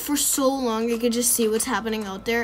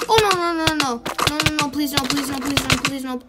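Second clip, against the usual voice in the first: loud desperate pleading; anguished denial; 3 semitones higher, 5 dB louder than usual. Real, not acted. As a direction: beg for your life. About to die, begging.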